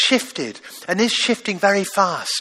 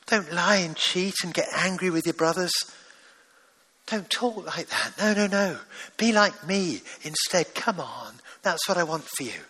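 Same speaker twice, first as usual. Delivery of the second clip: fatherly plea. Pretend. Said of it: "where your father might be saying to you".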